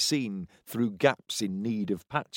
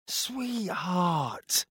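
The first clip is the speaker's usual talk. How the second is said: placating; 7 semitones higher, 5 dB quieter than usual. A narrator's reading. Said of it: "in what he hoped was a placating voice".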